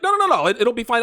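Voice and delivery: a hint of the girlfriend waving it away; mock girlfriend. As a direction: brush him off like she would. Quoting girlfriend brushing him off.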